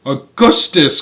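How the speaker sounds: cheerful cry. Acted. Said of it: "cried Mister Wonka".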